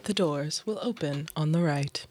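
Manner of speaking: measured transit announcer; recorded subway door announcement; even, automated station voice; TTC lady. Acted. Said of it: "the T T C lady".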